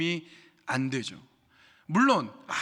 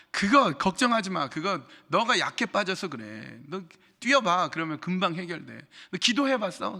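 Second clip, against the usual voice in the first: a mild mock browbeating friend; bossy lecturing; 2 semitones higher than usual. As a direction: scold them into fixing it. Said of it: "윽박 지르고 다짜고짜".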